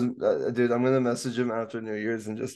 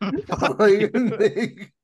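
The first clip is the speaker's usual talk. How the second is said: laughing; 7 semitones higher, 5 dB louder than usual. Real, not acted. Laughing hard mid-question.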